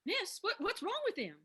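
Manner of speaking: high, loud panicked questions. Acted. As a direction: panic at the collapsing man. Waitress panicked as man collapses.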